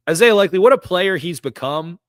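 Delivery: thrilled shout of a player's name; excited praise. Real, not acted. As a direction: exclaim it like you can't believe how good he is. Gushing over a standout player.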